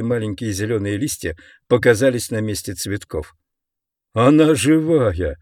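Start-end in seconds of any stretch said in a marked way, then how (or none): 4.1-5.4 slow, gleeful cry; joyful exclamation. Acted. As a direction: call it out with joy. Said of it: "воскликнул Слайм Уди радостно".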